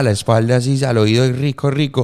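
low mock Medellín accent with marked s sounds. Shown as a demonstration. Host shows accent murmured into the ear, low mock Medellín accent. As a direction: lean on the s's, Medellín style. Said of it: "tiene ese acento bien marcado".

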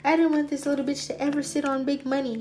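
a hint of a conniving enemy; mock voice of Curtis. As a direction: voice a petty rival plotting, pitched a bit up. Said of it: "Who is this with the demons? Curtis?".

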